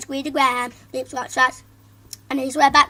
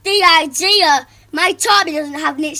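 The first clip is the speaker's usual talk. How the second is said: loud, higher outraged shout; shouting father; 3 semitones higher, 9 dB louder than usual. Acted. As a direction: bark it at the teacher. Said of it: "shouted his father".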